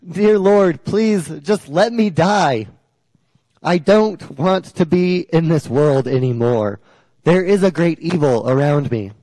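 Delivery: acted desperate plea to God; crying out. Elijah under a tree begs God to let him die, crying out. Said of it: "he's crying out".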